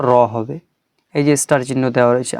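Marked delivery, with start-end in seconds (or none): 0.1-0.1 র said full, with rounded lips; heavy rounded sound. Shown as a demonstration. Teacher shows the starred letter, heavy rounded র. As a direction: round the mouth into an "aw" on র. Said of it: "মোটা হয়ে উচ্চারণ হবে".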